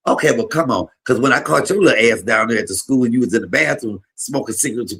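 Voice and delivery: grandma's retort. Retold or imitated.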